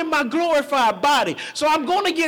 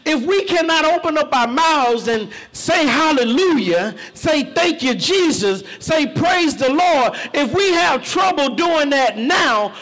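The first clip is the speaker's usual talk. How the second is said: preaching shout. Real, not acted. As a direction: call the church to say it. Preacher calling church to praise.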